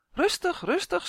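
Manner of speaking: high, lilting mock plea; laughing plea. A narrator's reading. Tonia begs the dizzying little creature to settle, playful high plea. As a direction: plead playfully, voice well up. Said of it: "smeekte Tonia lachend".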